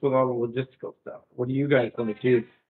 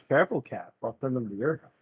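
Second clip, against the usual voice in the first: retort; 5 dB quieter than usual. Acted. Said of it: "her retort back".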